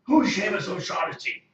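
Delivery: high, loud frantic shouting; scream, terrified and confused; panicked yelling prisoner. Acted. NPC panics in straitjacket.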